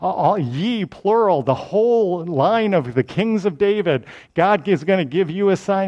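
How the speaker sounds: mildly dramatic prophet's address; a modest attempt at grand proclaiming; lightly acted public summons; prophetic proclamation. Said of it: "if I was more dramatic".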